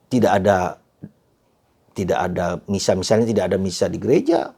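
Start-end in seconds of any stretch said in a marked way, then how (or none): none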